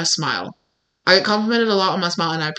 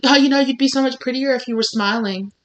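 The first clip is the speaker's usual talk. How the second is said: higher, sing-song mock compliment; mock sweet-talk; 4 semitones higher than usual. Woman mimicking people who tell women to smile, mock sweet-talk. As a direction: imitate an unwanted compliment, pitched up.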